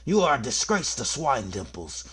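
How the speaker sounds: high, loud, drawn-out ghostly wail; furious scolding ghost. Acted. Ghost dragging children off to detention, furious wailing scold. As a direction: howl out the telling-off like a spook.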